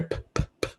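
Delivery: short unvoiced P pops; popping plosives. Shown as a demonstration. Trainer showing why a pop filter is needed, popped P sounds. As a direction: puff bare P sounds into the mic. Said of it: "pop filter to eliminate pops".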